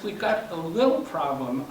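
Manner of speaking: understated stress on the word "little". Retold or imitated. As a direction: lightly lean on "little". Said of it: "I emphasize the word little".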